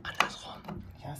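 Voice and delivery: unvoiced whisper with a soft laugh; whisper, then a breathy giggle. Real, not acted. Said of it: "warum flüsterst du?".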